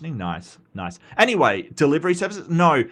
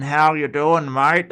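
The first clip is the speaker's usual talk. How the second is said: slightly exaggerated broad Australian greeting; ocker Australian accent. Shown as a demonstration. Showing viewers what ocker sounds like, broad Australian. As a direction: lean into the Australian ocker twang. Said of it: "It's that really, really Australian".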